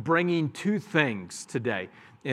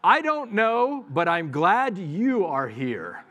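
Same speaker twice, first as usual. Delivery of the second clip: warm welcome; 4 semitones higher, slower than usual. Shown as a demonstration. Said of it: "and you say".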